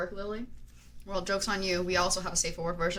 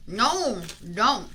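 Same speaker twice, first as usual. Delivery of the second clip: firm no; 5 dB louder than usual. Real, not acted. Telling partner not to come.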